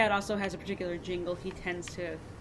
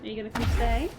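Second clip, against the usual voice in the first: insistent coaxing; 4 semitones higher, faster than usual. Real, not acted. Owner invites the cat to stay, insistent coaxing. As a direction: coax a pet with a more pressing question.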